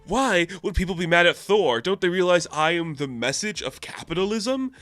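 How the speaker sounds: mock bewilderment at being disliked; baffled Thor. Thor puzzled by protesters outside headquarters, lightly acted bafflement. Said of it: "And he's like".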